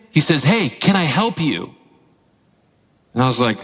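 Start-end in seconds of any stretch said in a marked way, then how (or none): 0.4-1.7 lightly voiced child, slow and clear; clearly repeated offer. Son repeats his offer to dad, slowly and clearly. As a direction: imitate a kid patiently repeating himself.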